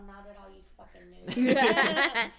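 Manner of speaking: slow, loud mocking put-on voice; drawn-out mock jeer; mock snooty retort. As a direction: sneer it out slowly, imitating him. Mocking S0's dismissive reply.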